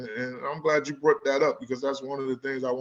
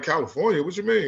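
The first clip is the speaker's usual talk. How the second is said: higher-pitched incredulous questioning; retold puzzled disbelief; 5 semitones higher than usual. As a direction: question it like it makes no sense. Retells his puzzled reply to producers.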